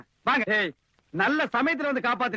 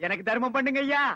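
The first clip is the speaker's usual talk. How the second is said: begging whine; 2 semitones lower than usual. Pretend. Posing as beggar asking alms.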